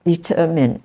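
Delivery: "determine" as de-TER-mine; stress second syllable. Shown as a demonstration. Teacher corrects the wrong form for students, stress second syllable. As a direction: put the weight on TER in "determine". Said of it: "stress is on the second syllable".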